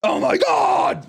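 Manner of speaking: high, slow, drawn-out wail; mock hysterical cry. Acts crying with laughter at people.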